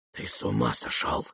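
low, soft urgent whisper. A narrator's reading. Ptitsyn warning Rogozhin quietly, whispering. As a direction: hiss it close to his ear. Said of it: "прошептал вдруг Птицын".

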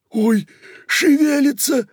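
very high, loud startled squeal; shriek. Acted. Кока seeing the jug move, high shriek. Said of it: "взвизгнула Кока".

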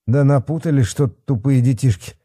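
high-pitched, huffy complaint; puffing grumble. A narrator's reading. Sweating policeman dismisses the kids' find, puffing grumble. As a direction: puff out the words in annoyance. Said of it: "пропыхтел Бахметьев".

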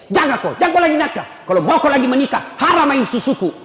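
mother scolding her son who wants another wife. Retold or imitated. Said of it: "datang itu mertuamu bela".

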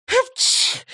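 high loud sneeze sound; mock sneeze. A narrator's reading. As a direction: explode into a sneeze. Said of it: "чихнув".

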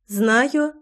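mild, composed acknowledgement; calm. A narrator's reading. Loy nodding to Tairin, calm. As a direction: say it evenly, unruffled. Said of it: "спокойно кивнула Лой".

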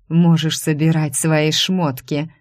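slow, lightly hissed threat; hissing threat. Acted. Rival leans over the secretary, hissing slowly. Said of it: "зашипела она".

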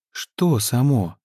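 slow, sly, coaxing question; slow silky prying; insinuating. Acted. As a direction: draw the answer out of her slowly. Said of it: "вкрадчиво сказала Мирта".

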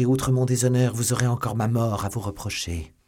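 desperate threat. Acted. Milady retells defying the man in her room, threatening. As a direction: press the threat, starting high and loud.

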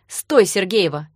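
loud, slow call to stop. Acted. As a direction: shout after her down the stairs. Danya calls her back.

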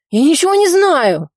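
high, loud cry of denial; frantic shout. A narrator's reading. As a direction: scream that you know nothing. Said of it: "закричал он".

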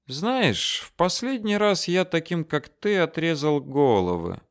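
a menacing thought said half aloud; a quiet pensive threat; pensive Ali. Acted. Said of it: "задумчиво сказал Али".

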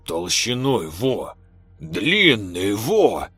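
slurred tipsy boasting; drunk slurring. Acted. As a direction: slur it like a village drunk. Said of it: "заплетающимся языком рассказывал дядя Витя".

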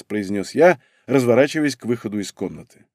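plain reading voice

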